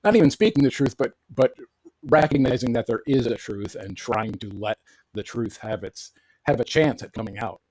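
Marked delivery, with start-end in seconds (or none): 2.0-7.6 choppy robotic audio; garbled, like talking into a fan. Real, not acted. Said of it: "Rob has robot voice".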